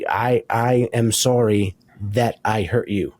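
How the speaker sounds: slow, sincere apology owning the hurt. Shown as a demonstration. Husband apologizing to his hurt wife, slow and sincere. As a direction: say it slowly and mean it. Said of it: "No, no, no".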